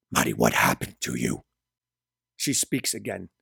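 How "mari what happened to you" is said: deep, low-pitched male character voice; Gabriel. A narrator's reading. Stunned Gabriel recognizes aged Mari, deep questioning voice. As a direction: drop far down in pitch, stunned. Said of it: "he responds".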